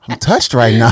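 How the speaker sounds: mock touched, through a laugh. Praising her friend's acting, laughing. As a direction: laugh while claiming to be moved. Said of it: "I was like".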